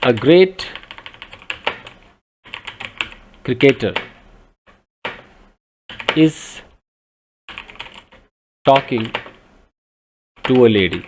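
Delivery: words spaced by long pauses; slow, paced classroom example; slow dictation. Shown as a demonstration. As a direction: dictate the example sentence slowly. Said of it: "अगर मैं कहता हूं".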